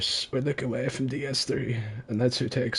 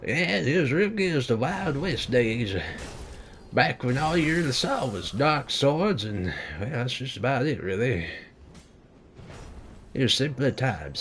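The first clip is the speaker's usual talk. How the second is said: put-on very old man. Old-timer reminiscing, "Sonny.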